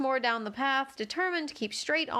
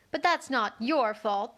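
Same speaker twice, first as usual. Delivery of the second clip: kindly; slower than usual. Acted. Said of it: "the Rose added kindly".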